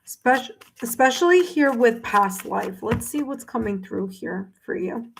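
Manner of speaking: talking through the hiccups; hiccuping between words. Real, not acted. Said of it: "I'm sorry, I have the hiccups".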